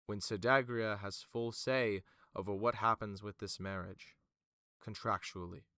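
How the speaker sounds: formal affirmation, falling away at the end; Vima. Acted. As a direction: affirm it as settled fact. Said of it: "Fimid then goes again, affirming one more time".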